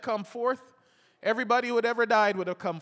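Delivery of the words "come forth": bare command. Retold or imitated. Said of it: "if he had just said".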